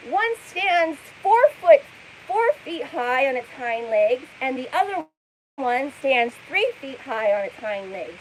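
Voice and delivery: lightly hyped-up retelling voice; hyper mimicry. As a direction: keep imitating her hyped delivery. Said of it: "hyper, like, almost screaming".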